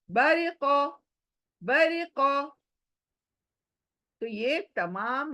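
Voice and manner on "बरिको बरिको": बरिको with a thin light रि. Shown as a demonstration. Teacher models बरिको, thin R. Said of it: "यहाँ पर भी रे बारीक".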